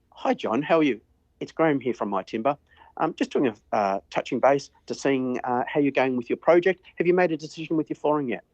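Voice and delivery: lively, lilting voicemail with a friendly lift; with inflection. Shown as a demonstration. Salesman showing a new employee the cheerful way to leave a message. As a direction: sound like you are enjoying the call. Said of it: "Use inflection in your voice".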